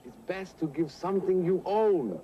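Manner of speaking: put-on slow, deliberate foreign-accented English. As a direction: spell it out slowly in a thick foreign accent. Foreign guest in broken English.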